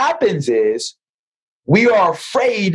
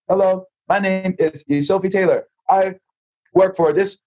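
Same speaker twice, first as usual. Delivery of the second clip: formal scripted salesman voice; stiff sales pitch. Retold or imitated. Salesman reciting his script to an old friend, stiff and formal. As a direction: recite it like a canned corporate script. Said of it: "why are you talking like that".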